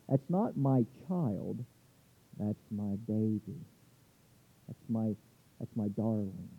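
softly, like a mother to her little one; tender mother. Retold or imitated. Mother cooing over her baby, a touch tender. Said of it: "the term that a mother would have used".

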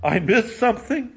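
mock surprise. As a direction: play the devil caught off guard, lightly. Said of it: "the devil replied".

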